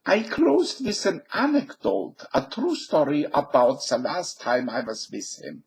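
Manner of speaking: a hint of a blustering German general; mock Hogan's Heroes general; General Burkhalter impression. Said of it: "General Burkhalter impression from Hogan's Heroes".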